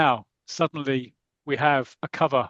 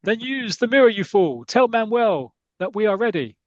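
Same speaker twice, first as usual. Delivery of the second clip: villain boss; 6 semitones higher, 3 dB louder than usual. Retold or imitated. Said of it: "you say".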